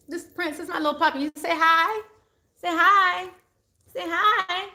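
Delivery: high cooing voice for the puppy; doting high-pitched dog talk; pet talk. Real, not acted. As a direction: coax the dog to say hi. Coaxing dog to greet viewers.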